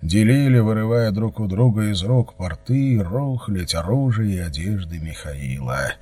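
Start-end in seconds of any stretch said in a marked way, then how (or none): none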